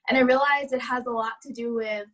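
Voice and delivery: breathless after running; out of breath. Real, not acted. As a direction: catch your breath mid-sentence. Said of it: "I'm out of breath 'cause I just ran".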